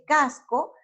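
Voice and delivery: "casco" said slowly, weight on CAS; stress on CAS. Shown as a demonstration. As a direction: lean on the first syllable of "casco". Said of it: "la fuerza va en la penúltima sílaba".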